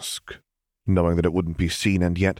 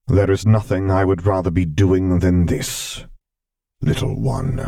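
louder, tender admission; amused rumble; 4 dB louder than usual. A narrator's reading. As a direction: Vader telling the child he'd rather be here, amused and tender. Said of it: "he rumbled with amusement".

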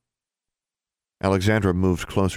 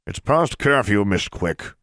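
warlock portrait; 3 semitones higher, slower than usual. A narrator's reading. Warlock portrait chides girl out past curfew, high scolding voice. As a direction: pipe up high like an officious painting. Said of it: "the portrait said".

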